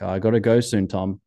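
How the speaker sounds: lightly imitated Austrian accent; bad Austrian accent. Skier excuses himself to leave, bad Austrian accent. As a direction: put on a rough Austrian accent. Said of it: "That's a really bad Austrian accent".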